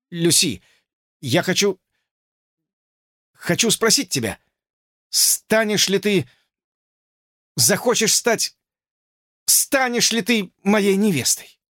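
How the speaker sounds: halting, broken-off proposal; stammering. A narrator's reading. George stammering his proposal to Lucy. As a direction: stumble through the words. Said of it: "заикаясь".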